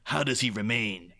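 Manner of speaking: lightly voiced movie trailer narrator, drawn-out final words; hint of a portentous announcer, slowing right down on the title; old-school trailer announcer. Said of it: "the proper old school announcer guy".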